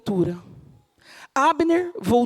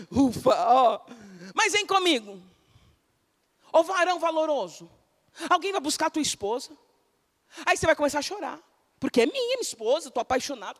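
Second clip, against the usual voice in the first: usual speaking voice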